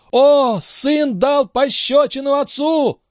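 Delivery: very high, slow, shocked outcry; frenzied crowd cry. Acted. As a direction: scream it out like a horrified crowd. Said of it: "Зрители иступлённо закричали".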